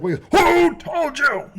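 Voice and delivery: high, slow mock-panicked kids; hammed-up frightened kids; panicky kids. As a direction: squeak it out like scared kids caught. Kids panicking in retold scene.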